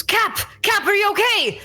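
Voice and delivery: high, urgent cry of concern; alarmed calling out. Acted. Sailor calling to his unconscious captain, high and alarmed. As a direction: call out in alarm, pitch jumping up. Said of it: "and one of them goes".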